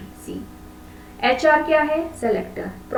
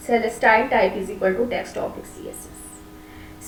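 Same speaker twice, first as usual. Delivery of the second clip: slow dictation; much slower than usual. Shown as a demonstration. Teacher dictating a code line.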